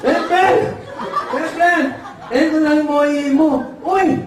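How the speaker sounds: high, calling cartoonish voice; eager call with drawn-out ending; excited impeded speakers. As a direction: imitate a speech defect, pitched right up. Son calls customer, customer thanks him.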